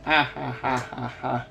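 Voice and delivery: mock "ha ha ha" laugh; spoken imitation of a subtitled laugh; imitated laughing. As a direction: read out the laughter as separate ha's. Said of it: "the, the laughing".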